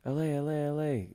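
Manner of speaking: high, mock French kitchen callout "L A"; imitating French cooks yelling "L A"; mock French shout. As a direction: bark "L A" like a French chef clearing the way. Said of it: "they'd be like".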